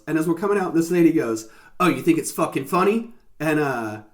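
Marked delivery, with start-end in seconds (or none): 1.8-3.1 attempted Southern accent slipping into British; muddled southern-British accent, pitched slightly up. Retelling a lady's remark outside Goodwill, muddled southern British accent. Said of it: "like, a southern British accent".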